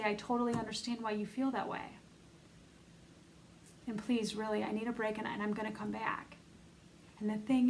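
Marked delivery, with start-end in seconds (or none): 0.0-6.3 softer, gentle and reassuring; lovingly. Pretend. Speaking tenderly to your upset inner part, softly reassuring. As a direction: soothe a hurting part of yourself. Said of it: "And you lovingly say".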